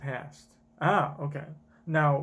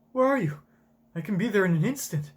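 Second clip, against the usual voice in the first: higher, louder, urgent; urgent call; 4 semitones higher, 4 dB louder, faster than usual. Acted. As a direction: call out desperately for her. Kuma shouts after Ginny.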